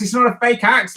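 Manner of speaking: mock-indignant, lean hard on "not"; stress on NOT. Mock denial of fake axe.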